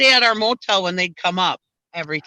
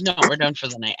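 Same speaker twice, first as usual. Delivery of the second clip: grumpy; 5 semitones lower than usual. Retold or imitated. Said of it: "she was totally grump mode".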